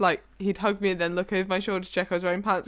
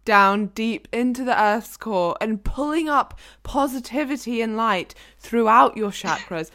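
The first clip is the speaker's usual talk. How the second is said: mock yoga teacher. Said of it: "I should be a yoga teacher".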